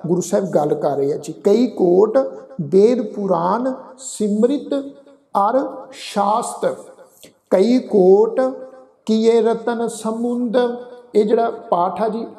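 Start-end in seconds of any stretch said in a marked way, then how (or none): 1.4-10.6 slow, measured verse recitation; deliberate chant-like reading with pauses; scripture recitation. Shown as a demonstration. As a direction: recite line by line with held final syllables.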